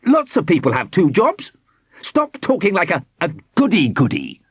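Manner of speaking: high-pitched quarrelsome retort; defiant yell. A narrator's reading. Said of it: "yelled Squidgy".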